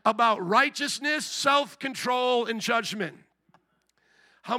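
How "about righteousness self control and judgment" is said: slow, emphatic mock shout; exaggerated preachy holler; mock yelling. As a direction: belt it out slowly, hammering each point. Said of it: "if my mom yelled it, shouted it".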